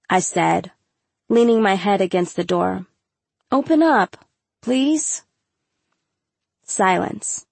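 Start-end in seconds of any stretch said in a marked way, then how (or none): 3.5-5.2 high-pitched coaxing plea; pleading. A narrator's reading. Girl at the stall door begging her friend, pleading. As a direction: beg gently to be let in.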